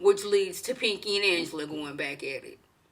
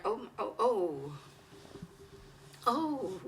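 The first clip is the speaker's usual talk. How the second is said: stunned oh; 11 dB quieter, slower than usual. Retold or imitated. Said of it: "I'm like".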